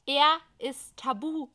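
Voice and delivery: slow, loud and firm; slow emphatic. Acted. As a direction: lay it down slowly. Isa insists firmly. (langsam und nachdrücklich)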